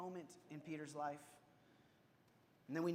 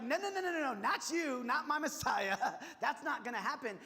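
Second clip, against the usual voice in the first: high, loud "no, no, no" breaking into a laugh; retold protest; 6 semitones higher, 5 dB louder than usual. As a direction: play Peter refusing, half laughing. Peter protesting Jesus' death.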